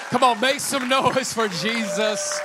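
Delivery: slow, high shouted call; rally shout. Real, not acted. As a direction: shout it to the whole room. Calling crowd to cheer.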